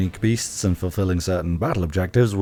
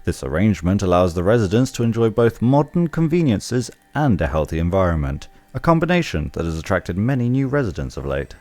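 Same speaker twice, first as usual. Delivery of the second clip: informative tour guide read. Pretend. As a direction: narrate it like a museum guide. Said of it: "my tour guide voice".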